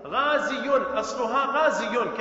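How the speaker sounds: "غازي" as ghaaziyun, with yaa and final n sounded; original form pronunciation. Shown as a demonstration. Teacher giving the word's origin, "غازي" fully pronounced as ghaaziyun. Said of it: "أصلها غازي".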